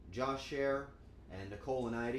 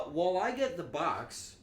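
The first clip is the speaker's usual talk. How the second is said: ordinary delivery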